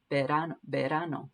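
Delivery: "Verano" with a B-like V and a tapped R; quiet repeated "verano" demo; Spanish pronunciation. Shown as a demonstration. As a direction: softly repeat "verano", R between D and R. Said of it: "somewhere in between there".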